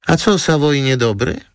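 high, puzzled "Savoy niedobry?"; surprised question. Acted. Model surprised the lawyer dislikes the Savoy, high. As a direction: sound honestly puzzled and high. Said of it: "zdziwiła się Antonina".

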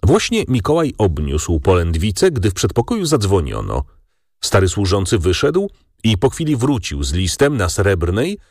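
ordinary delivery, nothing marked

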